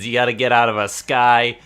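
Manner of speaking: hammy Boston tough guy; Boston accent. Pretend. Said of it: "I'm using a Boston accent".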